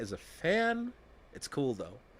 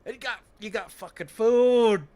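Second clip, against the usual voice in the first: much louder, much higher exasperated yell; furious shout; 11 semitones higher, 15 dB louder than usual. Acted. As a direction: blow up at them for not eating. Exasperated rant at British settlers.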